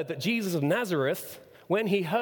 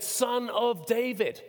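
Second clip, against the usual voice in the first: slow, raised-pitch quoted call; retold calling out; 5 semitones higher, much slower than usual. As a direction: draw out the title as a mild cry. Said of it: "what did he shout?".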